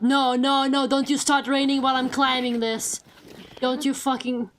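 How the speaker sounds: frustrated, rising angry pleading; real frustration at the rain; angry crying. Real, not acted. Rain starts mid-climb, swearing.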